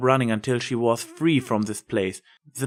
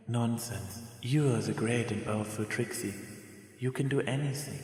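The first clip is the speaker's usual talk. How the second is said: much softer, faint, tender reassurance; weak dying mother; 9 dB quieter than usual. Acted. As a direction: comfort your child with your last strength. Dying mother comforts daughter.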